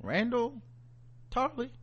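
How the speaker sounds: high, rising disbelief on the name; shocked realisation. Retold or imitated. The queen realising who his father is. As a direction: say the name like it just clicked. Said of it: "She was like".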